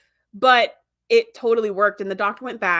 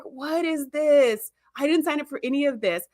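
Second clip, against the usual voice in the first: mock dismay; 4 semitones higher than usual. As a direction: imitate a dismayed, protesting husband. Retold husband's dismayed complaint.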